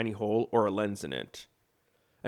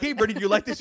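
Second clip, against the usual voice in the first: quoting himself; 10 semitones higher, 6 dB louder, much faster than usual. Retold or imitated. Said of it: "all the times I'm like".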